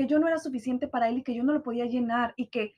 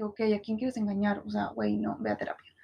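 scornful retort; 5 semitones lower, 5 dB quieter than usual. Retold or imitated.

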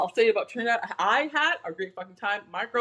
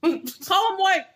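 slow, high, every word spelled out; blunt correction; 11 semitones higher, 4 dB louder, much slower than usual. Real, not acted. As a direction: drawl it out like a lesson. Mocking friend's word choice.

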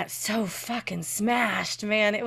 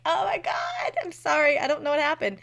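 mock panicked apology; 7 semitones higher than usual. Apologising to Robert, drunk.

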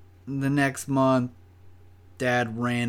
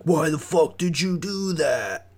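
higher-pitched mock outrage; imitated angry coworker; 5 semitones higher than usual. Coworker blaming him as the dogs go crazy, mock outrage. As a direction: mimic an accusing coworker. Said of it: "she's like".

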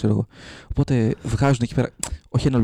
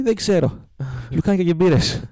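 put-on higher, childish whine of a demand; whiny insistence; 6 semitones higher than usual. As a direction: whine for sausages and beer. George insists, clueless, on sausages.

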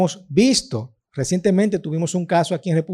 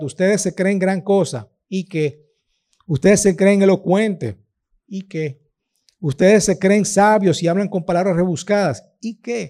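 mock them, then drop to a dismissive so what; sarcastic jabs with deflating asides; ironic scorn; 2 semitones higher than usual. Paul scolding the boastful church, ironic and dismissive. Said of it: "con esta ironía los reprende".

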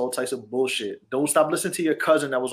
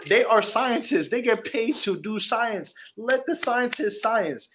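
slow emphatic; 7 semitones higher, much slower than usual. Real, not acted. Lecturing friends on covid advice.

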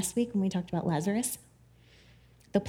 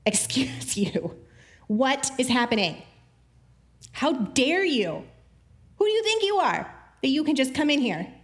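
indignant leaders; 3 semitones higher than usual. Retold or imitated. Preacher mocking leaders scolding Jesus, indignant. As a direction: play the huffy religious leaders. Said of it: "they're like".

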